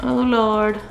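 loud alarmed cry; panicked. Real, not acted. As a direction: blurt it out in panic. Chased by Zergs, panicking.

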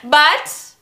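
tipsy giggling apology. Real, not acted. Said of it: "and I'm drunk".

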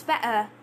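"better" with its T left out; glottal T in better. Shown as a demonstration. Teacher lets learners hear the glotted word, "better" with no T. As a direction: stop the breath in place of the T in "better". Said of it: "You just hear that".

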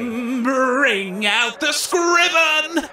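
slow, drawn-out showman's shout; announcer call. Acted. Host bellows the monster onto the stage. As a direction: call it out to the whole crowd.

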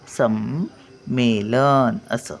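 संमेलन drawn out with the म held; slow demo. Shown as a demonstration. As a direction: linger on the म in संमेलन. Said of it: "इथे येतो हा". (संमेलन सावकाश उच्चार)

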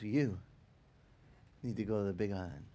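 low, soft, quick instruction; soft-spoken. Retold or imitated. Quiet man repeating his message to the pastor, soft-spoken. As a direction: murmur it low and matter-of-fact. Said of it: "he comes up again and goes".

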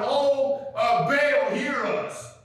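high-pitched hammed-up wail to Baal; mock weeping plea. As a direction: act out desperate worshipers pleading. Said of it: "they're over there weeping and cutting themselves".

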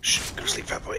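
whispering over a crib. Pretend. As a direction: coo him to sleep like a baby. Soothing enemy as he kills.

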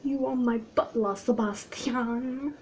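badly faked British accent, name drawn out; British accent attempt. Addressing the butler, half-hearted British accent. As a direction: try British, stretching out the name. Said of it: "Can't do a British accent".

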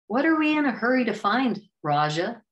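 irritation dripping from each word; irritated. A narrator's reading. Damien needling Raja, irritated. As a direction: snap it out, annoyed. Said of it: "Damien's irritation dripped from every word".

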